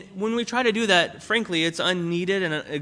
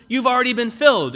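higher and louder, pressing the point; preaching emphasis; 5 semitones higher, 6 dB louder, faster than usual. Acted. Pastor urging the church, raised and emphatic. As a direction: drive home "filled".

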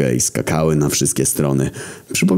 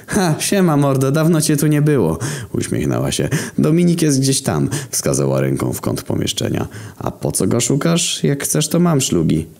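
wysoki, bełkotliwy głos dziewczyny; drunk girl; 11 semitones higher than usual. A narrator's reading. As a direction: zagraj pijaną studentkę, wysoko. (pijana dziewczyna zagaduje Zarazę, wysoki głos)

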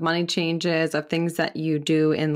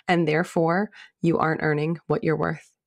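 ad read. Acted. Recorded ad read with music.

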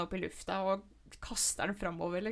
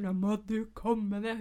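roaring order; 5 dB louder than usual. Retold or imitated. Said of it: "jeg roper og brøler".

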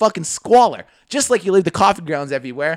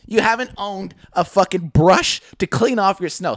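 voice cracking; 4 dB louder than usual. Real, not acted. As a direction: voice cracks mid-rant. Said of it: "My voice just cracked".

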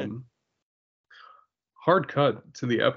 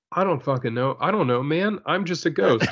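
higher-pitched, cavalier protest; exasperated ghost; 4 semitones higher than usual. Acted. Co-host voicing ghost Alfred fielding questions, mock exasperation. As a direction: plead total ignorance in mock exasperation.

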